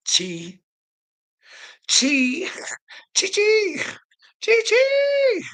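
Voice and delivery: escalating squeaky taunt; sing-song chi chi. Pretend. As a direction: climb up the scale with each chi. Mocking sing-song call, rising.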